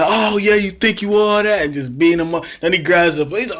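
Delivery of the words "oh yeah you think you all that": higher, louder taunting voice; a lightly acted brawler taunt; mock Shane taunt. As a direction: sneer it like a bully picking a fight.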